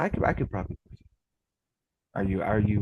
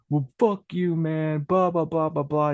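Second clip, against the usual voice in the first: mock angry rant, pitched up and sliding down; running his mouth; 7 semitones higher than usual. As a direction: imitate an ex mouthing off in a higher voice. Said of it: "He started running his mouth".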